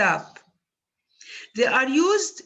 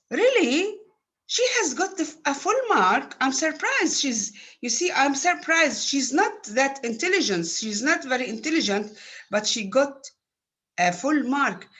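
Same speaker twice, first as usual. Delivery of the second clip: high, rising, amazed "Really?"; surprised intonation; 4 semitones higher than usual. Shown as a demonstration. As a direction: sound genuinely astonished at the news. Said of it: "it is clear in my intonation".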